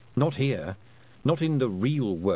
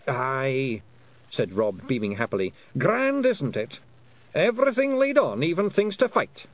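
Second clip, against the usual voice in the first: high, bright Scots wee man; cheerful little Scottish warrior; cheerful Scottish pixie; 3 semitones higher, 3 dB louder than usual. Acted. Rob beaming happily.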